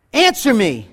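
firm call into a cave; mock yell. Boy demanding a reply, mild mock yell. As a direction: demand it of the hidden boy, mildly. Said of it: "he yelled on".

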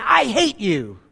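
put-on mildly angry boy's outburst; mock angry. Angry boy shouting at the cave, mild mock anger. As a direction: lightly act a boy's angry cry. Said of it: "The boy got angry and said".

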